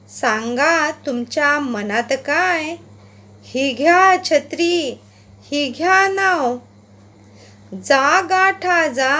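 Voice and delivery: slow, sing-song poem reading with a swinging rhythm; poem recitation. Acted. Teacher reading the frog poem aloud to pupils, rhythmic recitation. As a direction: recite it aloud for the class to follow, stretching the croaks.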